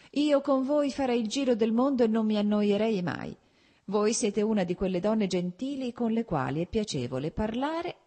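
put-on an old lady praising her companion; fond old countess. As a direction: countess holding Karenina's hand.

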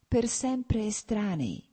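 bitter emphasis, slowly; with special weight. A narrator's reading. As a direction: let the word estranei land heavily. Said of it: "Ripeté di nuovo e con particolare significato".

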